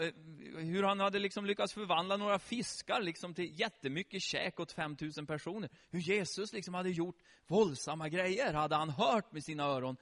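normal talking voice

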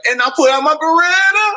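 high, melodramatic sung line; R. Kelly imitation. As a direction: ham up the big reveal. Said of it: "he's like".

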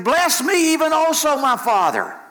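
high-pitched wail, falling at the end; bitter cry. Acted. Esau begs his father for a blessing, bitter wailing. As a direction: cry out in acted anguish. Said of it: "exceeding bitter cry".

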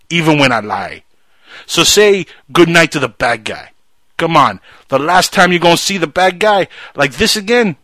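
put-on loud drunken gangster rant; loud mock Tony Montana rant; Tony Montana impression. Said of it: "He's like".

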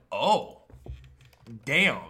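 mock impressed "oh damn"; playing the amazed listener. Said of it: "you're like".

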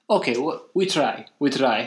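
lightly imitated Italian accent; a touch of broken-English Italian. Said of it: "he's very Italian".

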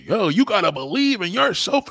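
high mocking motivational-speaker hype; mock-inspirational shout-out. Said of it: "what motivational speaker gotta tell you".

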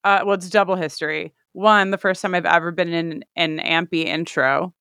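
talking with a retainer in. Real, not acted. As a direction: speak around a dental retainer. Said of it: "which I'm wearing right now".

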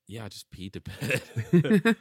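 laughing it out. Real, not acted. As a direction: laugh through the words. Laughing confession.

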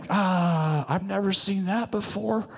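high, softish drawn-out "ah"; timid admission. Retold or imitated. Congregant admitting no miracle seen, timidly. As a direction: lightly mimic a hesitant onlooker owning up. Timid onlooker answering the pastor's call.

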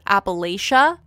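Appalachia said as "apple-ay-shuh", long a and sh; Appalachia, ap-uh-LAY-shuh; second pronunciation. Shown as a demonstration. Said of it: "heard this word said several different ways".

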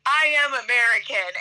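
put-on measured, emphatic American accent; exaggerated American accent. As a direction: lay on your most American accent. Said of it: "in my most American accent".

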